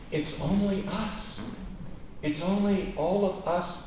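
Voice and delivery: ONLY held long and falling, slow and soft; "It's only us" with ONLY drawn out; only stressed. Shown as a demonstration. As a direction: stretch the word "only". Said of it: "Jesus seems to be saying".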